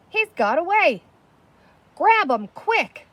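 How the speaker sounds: urgent shout. Acted. Someone in the crowd shouting to catch the escapee, urgent shout. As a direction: yell to grab him fast.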